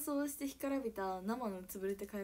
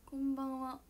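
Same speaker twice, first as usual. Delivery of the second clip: whispered greeting; 3 semitones higher than usual. Real, not acted.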